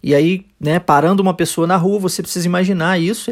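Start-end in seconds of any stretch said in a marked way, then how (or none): none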